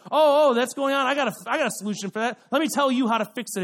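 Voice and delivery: lightly voiced know-it-all, rushing in fast; eager know-it-all. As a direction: jump in quickly with a hint of the eager fixer. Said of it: "you are the know-it-all that has every answer".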